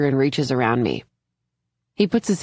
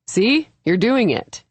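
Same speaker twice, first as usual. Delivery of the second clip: proud and encouraging, pitched up; 6 semitones higher than usual. A narrator's reading. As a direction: cheer her on proudly. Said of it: "he says proudly".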